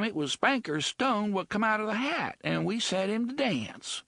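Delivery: high, coarse dialect woman's voice; rough slum woman. Acted. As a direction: sullen bloody woman voice. Woman's words, later echoed.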